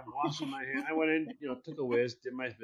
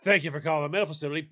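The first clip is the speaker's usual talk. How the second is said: rattled-off receptionist greeting; quick mock switchboard greeting; phone-answering voice; much faster than usual. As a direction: answer the phone fast, on the edge of laughing. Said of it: "do this and answer the phones".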